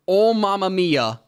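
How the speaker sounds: slow, hammy mamma mia; quoted exclamation. Retold or imitated. Quoting the manga's translation for a co-host, drawn-out exclamation. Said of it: "this is the official translation from Japanese to English. It says".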